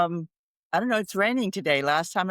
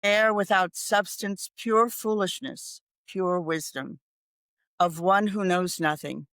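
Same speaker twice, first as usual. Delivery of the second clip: poem recital. Acted. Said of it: "And I wrote the first bare line".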